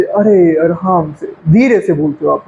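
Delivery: slow, low, easy delivery. Shown as a demonstration. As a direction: stretch it out calmly and low. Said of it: "कभी धीरे से".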